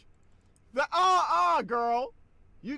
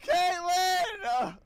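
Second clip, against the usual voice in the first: outraged cry; 5 semitones higher than usual. Real, not acted. Character throws someone.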